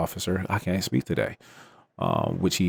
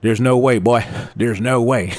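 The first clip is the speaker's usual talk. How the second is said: mock disbelief; 3 semitones higher, 6 dB louder than usual. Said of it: "he's probably saying this like".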